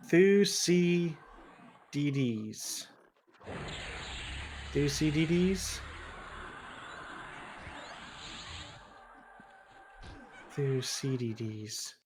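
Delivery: drawn-out Thucydides, each syllable spelled out; careful slow pronunciation. Shown as a demonstration. Reading a hard name off the screen, slow and careful. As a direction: sound out Thucydides slowly, syllable by syllable. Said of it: "The ancient Greek historian".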